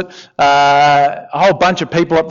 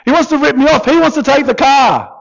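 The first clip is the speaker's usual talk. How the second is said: whiny complaint; 10 semitones higher, 3 dB louder than usual. Acted. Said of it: "and this guy goes".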